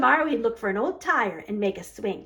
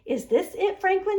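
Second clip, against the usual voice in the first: Mister Heron asking; 9 semitones higher than usual. A narrator's reading. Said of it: "he asked".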